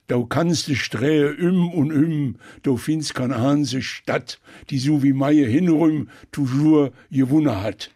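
slow recital in Eifel Platt; thick Eifel dialect, measured verse delivery; Mainer Eifel dialect. Shown as a demonstration. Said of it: "was vom Mainer Jung".

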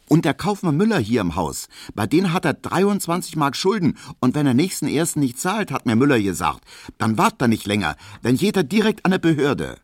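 high, chatty Berlin housewife; gossiping landlady. Acted. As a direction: spill the house gossip eagerly. Piesecke gossips about debts.

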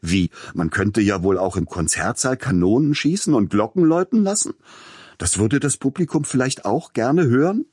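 mocking, shooting up high and loud; sarcastic fury. A narrator's reading. Composer mocks the agent's programme, furious sarcasm. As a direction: spit the sarcasm in rage.

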